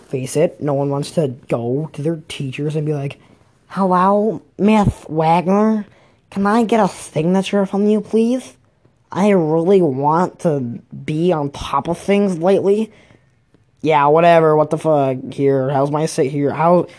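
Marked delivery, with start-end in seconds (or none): 3.7-12.9 lightly put-on, higher student voice; mock-polite, higher-pitched request; polite student plea. Student asking teacher for a signature, mock-polite pleading.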